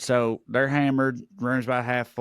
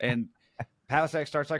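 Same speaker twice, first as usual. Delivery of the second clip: plain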